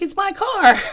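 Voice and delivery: put-on high, loud drunken insistence; indignant protest. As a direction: whine it loud, offended. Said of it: "I'm like".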